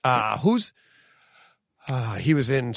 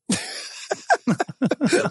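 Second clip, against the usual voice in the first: high laugh. Real, not acted. Laughing at the actor's candour.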